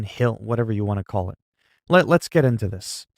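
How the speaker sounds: normal talking voice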